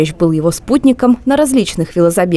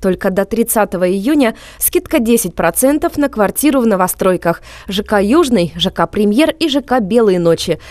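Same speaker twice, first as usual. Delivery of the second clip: chipper 1950s ad. Acted. Anchor reads sponsor ad.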